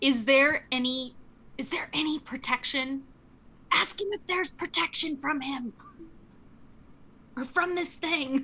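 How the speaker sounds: hushed voice. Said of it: "I'm whispering to you".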